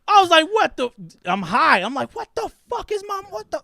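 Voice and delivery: high, hammed-up disbelief; incredulous shock. Stoned son reacting to mom's question, high-pitched shock. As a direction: squeal it as if floored by mom.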